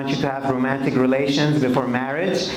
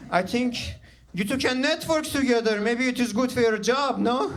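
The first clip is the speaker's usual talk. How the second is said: lightly voiced dad, higher pitch, coaxing; imitated Persian dad; 6 semitones higher than usual. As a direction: nudge your son as a well-meaning dad. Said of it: "My dad takes me to the side".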